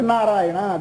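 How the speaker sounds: నారాయణ drawn out slowly and softly, each syllable held; slow, soft naming. Shown as a demonstration. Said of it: "మూడు అర్థాలు వచ్చేలా ఒక్క పేరు చెప్పు".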